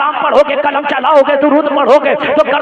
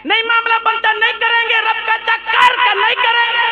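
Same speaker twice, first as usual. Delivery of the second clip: higher, haughty refusing devil; arrogant Iblis; 8 semitones higher, 4 dB quieter than usual. Acted. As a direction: sneer your refusal like proud Iblis. (घमंडी इब्लीस की ऊँची आवाज़)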